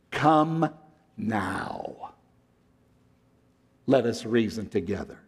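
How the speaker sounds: a touch of tearful tenderness; retelling a teary plea. Retold or imitated. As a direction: quote the professor gently, as if near tears. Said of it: "Doctor Price all of a sudden starts crying".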